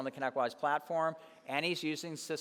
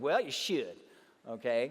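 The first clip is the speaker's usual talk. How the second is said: put-on Southern drawl, lower; 3 semitones lower than usual. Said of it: "he got a Southern accent, real Southern".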